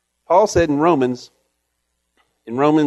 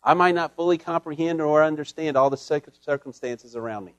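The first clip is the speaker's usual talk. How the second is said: humble prayer; 3 semitones lower than usual. Shown as a demonstration. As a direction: pray it gently, with humility. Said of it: "With humility".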